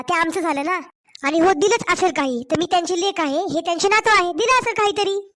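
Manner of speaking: heated, indignant back-talk to her mother-in-law; angry daughter-in-law. Acted. Daughter-in-law snapping back at her mother-in-law over her parents' gifts, heated.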